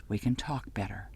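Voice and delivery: breathy whisper, barely voiced; murmur. A narrator's reading. Ov Glen to the narrator while kneeling, whispered. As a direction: whisper so the guards can't hear. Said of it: "Ov Glen murmurs at my side".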